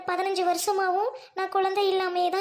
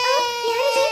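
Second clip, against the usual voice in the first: higher and louder, a sudden startled call; startled cry; 4 semitones higher, 6 dB louder, slower than usual. Acted. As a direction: jolt at the strange voice. Startled by a crying voice. (திடுக்கிட்ட கூவல்)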